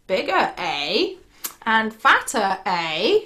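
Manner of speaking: lightly voiced troll, musing; intrigued troll. Troll tempted by a bigger goat, lightly played intrigue.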